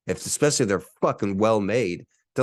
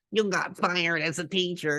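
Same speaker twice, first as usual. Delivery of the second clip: higher sneering troll voice; higher jeering troll voice from the fake reviews; mocking trolls; 11 semitones higher than usual. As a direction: jeer like a petty online troll.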